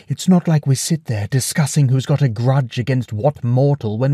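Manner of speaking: hands up, backing off. Acted. Circe voiced in story.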